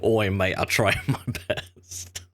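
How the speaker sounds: slow Aussie "Oi, mate, I'll try my best" breaking into laughter; mock Australian accent. Host redoing the Aussie voice actor, laughing mock accent. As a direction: drawl it like a laid-back Aussie bloke. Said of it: "that's Australia".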